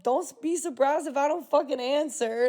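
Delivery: flat, cutting retort in her own voice; a deadpan "Don't be surprised if I don't fucking answer"; cold comeback. Retold or imitated. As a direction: shut him down without raising the voice. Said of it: "And I'm like".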